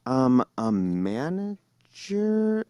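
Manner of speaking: slow, drawn-out puzzled question; baffled clerk echoing back. Retold or imitated. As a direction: make it sound like a question. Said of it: "everything was a question".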